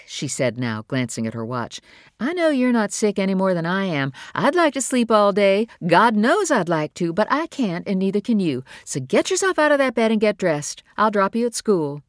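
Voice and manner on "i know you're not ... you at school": tired mother, higher and louder, pushing him to get up; a fed-up mom laying down the law; exasperated mother. Acted. Mother voiced in reading.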